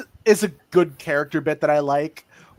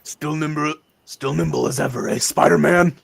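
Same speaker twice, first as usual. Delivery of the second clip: put-on New Yorker Kingpin accent; 4 semitones lower than usual. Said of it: "New Yorker Kingpin accent".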